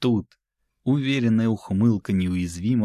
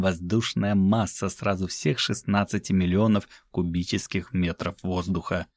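ordinary delivery, nothing marked

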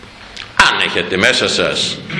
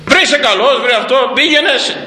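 mock scolding; 10 semitones higher than usual. Prophet scolding the donkey.

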